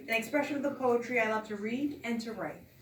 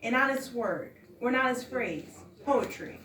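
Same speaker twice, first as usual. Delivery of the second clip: measured, emphatic poem reading; poetry recital. Acted. Poet reads artist statement to listeners, poetry recital. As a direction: recite in phrases, leaning into openings.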